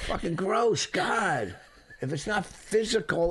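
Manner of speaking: high pitched disgusted groan. Real, not acted. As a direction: recoil in disgust.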